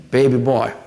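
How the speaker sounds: a hint of a scolding elder; light older-woman voice, firm; older mother figure. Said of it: "like your mama".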